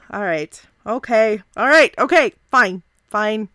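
P=B; self pep talk. Acted. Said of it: "nodding his head a little bit".

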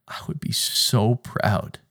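soft voice of a proud father; emotional whisper. Real, not acted. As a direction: whisper it, overwhelmed with pride. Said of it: "getting emotional".

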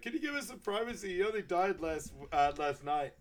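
high-pitched put-on pleading; hammed-up indignation, pitched well up; mock indignant plea. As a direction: imitate an upset mourner asking for space. Acted plea for privacy over death.

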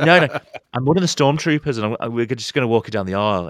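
keen mock-innocent protest; eager reassurance. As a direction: rush to reassure the nervous minister. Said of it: "And I was like".

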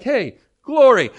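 loud, high, drawn-out affirmation; hammed-up Pentecostal cheer; mock church shout. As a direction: holler it as if agreeing in church. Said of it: "We would shout out the word glory".

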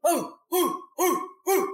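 short high "ooh" whoops; mock screaming. Priestesses cheering from the other van, mock screaming. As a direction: imitate a screaming crowd with light hoots. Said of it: "like, screaming".

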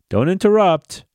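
sudden loud high burst; emphatic shout. Real, not acted. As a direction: bark it out firmly. Insisting on being heard.

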